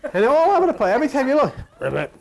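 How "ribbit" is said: low ribbit croak; frog croak. Pretend. Preacher croaking like a frog. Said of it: "they croak".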